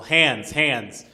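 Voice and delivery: acted sharp yelled command; imitated yell. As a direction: shout it like an armed guard. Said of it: "I just heard them yell".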